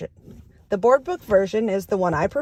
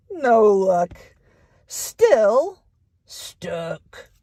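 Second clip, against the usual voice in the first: stuck duck refrain; much slower than usual. Acted. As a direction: sigh it out, stuck again.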